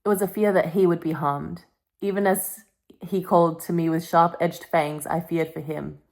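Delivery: reading a novel aloud in a storytelling voice. Acted. Vlogger reading Twilight aloud to her camera, storytelling.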